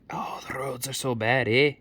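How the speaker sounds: put-on villager moan; mock townsfolk. Townsfolk complaining about the roads, in a put-on voice. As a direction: grumble as a silly townsperson. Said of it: "people in the town folk are like".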